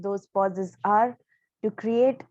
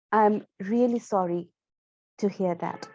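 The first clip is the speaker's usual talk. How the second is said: sorrowful. Shown as a demonstration. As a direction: demonstrate sorrow, letting the voice drop away. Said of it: "show or express sorrow".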